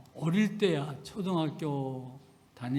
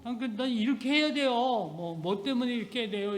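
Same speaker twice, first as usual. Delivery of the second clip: quick insistence; 6 semitones higher than usual. Retold or imitated. Son insisting voiced.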